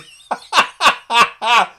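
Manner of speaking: loud high cackling laugh; big delighted laugh. Real, not acted. Viewer cackling at the crow summoner's arrival. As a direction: let a big gleeful laugh out.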